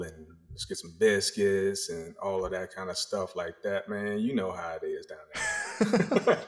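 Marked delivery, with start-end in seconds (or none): 0.5-1.9 put-on slow, drawn-out Southern accent, lightly done; Southern drawl. Back home with family, slow light Southern drawl. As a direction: stretch the vowels like back home in the Carolinas. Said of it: "the words get drawn out".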